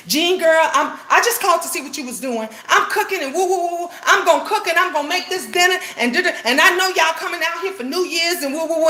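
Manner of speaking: lightly voiced sister, bubbly and high; a hint of her happy sing-song chatter; mild imitation of a cheerful sister on the phone; sister's joyful voice. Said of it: "She said it with so much joy and personality".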